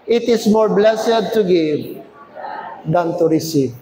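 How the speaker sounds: slow recitation settling low at the end; scripture reading aloud. Real, not acted. Preacher finishes the Bible verse with church, slow and solemn. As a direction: read deliberately and let the close drop.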